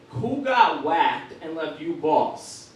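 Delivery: slow mock mobster line; B-movie Italian mobster. Son mocking his dad in a cheap mobster voice. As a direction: ham it up like a straight-to-DVD gangster. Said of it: "B-list Italian movie".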